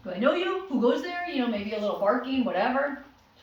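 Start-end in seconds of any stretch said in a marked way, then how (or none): 0.0-1.3 higher, louder mock challenge; wary guard dog. Voicing the grown dog at the door, high mock challenge. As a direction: play a suspicious watchdog. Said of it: "it's gonna be like".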